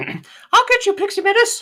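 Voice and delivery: squeaky cartoon voice pitched very high. Repeating a line someone just said, in a Mickey Mouse voice, really high. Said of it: "He's suddenly Mickey Mouse".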